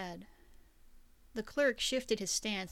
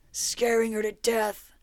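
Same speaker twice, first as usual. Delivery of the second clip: louder, furious outburst; angry shout; 10 dB louder than usual. A narrator's reading. Victor confronts the duchess's killers, furious shout. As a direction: spit it out in rage.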